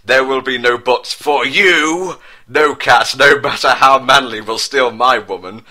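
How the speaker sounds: building mock-jealous yell; angry shout. A narrator's reading. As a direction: bark it like a jealous prince. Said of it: "shouted Prince William with anger".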